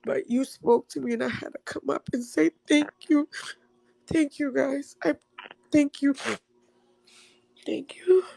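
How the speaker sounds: halting thank-yous through real tears; tearful thanks. Real, not acted. Caller thanking host and guests, crying. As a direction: keep thanking while choked up.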